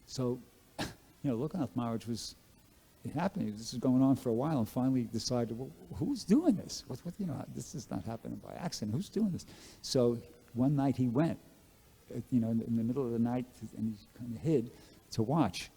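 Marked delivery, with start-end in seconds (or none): 5.6-9.5 put-on old guru wondering aloud who keeps cleaning his place; puzzled wondering. Guru puzzling over hidden servant.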